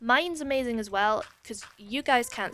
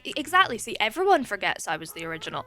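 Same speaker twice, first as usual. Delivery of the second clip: mock jealous; 5 dB louder, faster than usual. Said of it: "I'm exaggerating".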